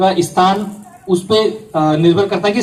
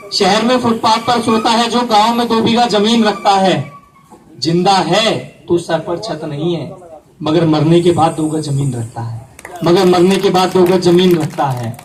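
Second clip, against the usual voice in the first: couplet recitation. Acted. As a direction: declaim the verse, pausing before the punchline. (मुशायरे वाला शेर पाठ)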